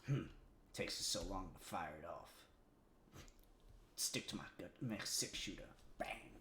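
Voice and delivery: low, bored gunslinger voice; unimpressed cowboy. Retold or imitated. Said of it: "Hex is just like".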